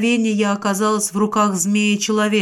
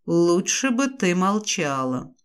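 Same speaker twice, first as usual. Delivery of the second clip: hissing serpent dragon; slower than usual. Acted. The naga replies.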